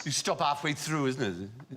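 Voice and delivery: put-on measured, lilting Welsh accent; gentle Welsh sing-song with a questioning tag. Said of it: "This is my accent".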